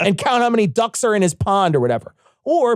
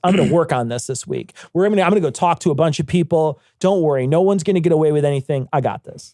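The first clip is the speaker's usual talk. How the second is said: calm confident reassurance; 4 semitones lower than usual. Retold or imitated. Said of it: "What she should have said was".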